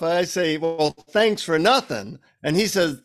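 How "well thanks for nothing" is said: slow, mock-annoyed retort; mildly pissed off. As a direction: retell it with a touch of annoyance, drawn out. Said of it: "so I'm pissed off".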